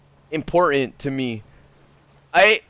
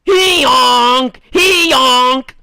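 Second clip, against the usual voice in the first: higher, loud goofy call; loud goofy yell; 9 semitones higher, 8 dB louder, much slower than usual. Acted. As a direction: shout it like a cartoon honk. Shouted catchphrase.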